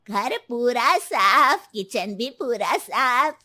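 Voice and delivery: slow, drawn-out amazement at the clean house; pleased surprise. Acted. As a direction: stretch each word, delighted and impressed. Mother-in-law finds house cleaned. (धीमे, खिंचे स्वर में खुश हैरानी)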